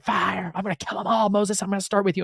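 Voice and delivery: mock angry god. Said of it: "Yahweh is super pissed. He's like".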